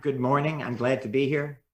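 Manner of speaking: a dull, dutiful greeting with nothing behind it; lifeless, going-through-the-motions welcome; flat, unconvincing. Shown as a demonstration. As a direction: say it like a chore, trailing off.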